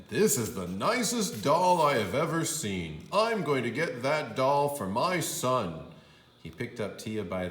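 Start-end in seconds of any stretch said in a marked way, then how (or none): 0.1-5.8 a touch of a pleased customer; louder, approving; lightly voiced shopper; admiring man. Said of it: "He said".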